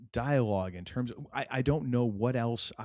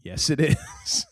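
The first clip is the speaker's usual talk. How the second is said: drawn-out agreement; 5 semitones higher, 7 dB louder, slower than usual. Retold or imitated. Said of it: "I'm like".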